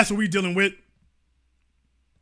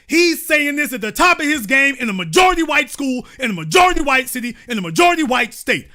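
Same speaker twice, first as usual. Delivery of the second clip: majority punched each time, getting faster; building emphasis; 4 semitones higher, 3 dB louder, faster than usual. Real, not acted. Host stressing majority white, building. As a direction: stack the phrases up.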